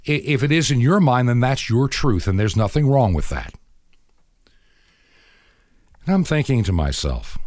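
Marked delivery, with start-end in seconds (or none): 0.1-3.5 mock earnest girl. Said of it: "completely serious and goes".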